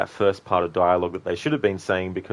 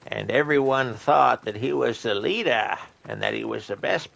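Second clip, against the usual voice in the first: a hint of a rambling old man; 3 semitones higher than usual. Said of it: "Thanks for redeeming the old man impression".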